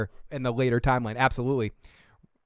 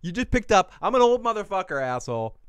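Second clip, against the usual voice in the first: put-on grumpy old cat; 5 semitones higher, 3 dB louder than usual. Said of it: "My eighteen-year-old cat is like".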